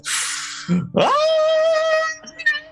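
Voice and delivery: huge high drawn-out breath scream; dragon breath roar. Acted. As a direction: unleash an icy breath attack. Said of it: "as he screams out this, um, this icy cold breath".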